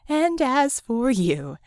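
slow, deliberate, building threat; slow menacing turn. Acted. Vicky turning to glare at Red, slow menace. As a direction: drag it out before the blow.

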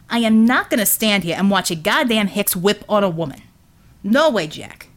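a working man stepping in to stop a beating; defiant Brooklyn union man. Acted. Hensel defiant.

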